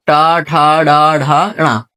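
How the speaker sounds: "टा, ठा, डा, ढा, णा" with the tongue up on the palate; retroflex sounds. Shown as a demonstration. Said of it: "तालू में ऊपर".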